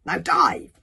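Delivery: loud, sudden command; ordering. A narrator's reading. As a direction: give the order with force. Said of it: "ordered Kamikaze".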